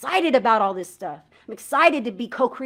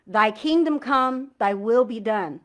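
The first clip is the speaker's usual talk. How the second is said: slow, deliberate prayer words; unhurried reverent recitation; prayer felt line by line; slower than usual. Shown as a demonstration. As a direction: let each phrase land slowly. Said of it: "but feeling each line".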